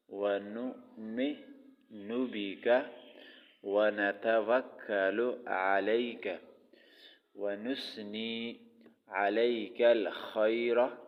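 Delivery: slow, drawn-out Arabic recitation; measured Quranic-style reading. Shown as a demonstration. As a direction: recite each phrase slowly and carefully. Recites the dua slowly.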